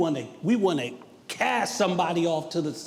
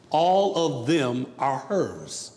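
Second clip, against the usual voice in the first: slow, lower-pitched standard wording; said slower; 5 semitones lower, slower than usual. Shown as a demonstration. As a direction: spell it out word by word for outsiders. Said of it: "I will say it slower".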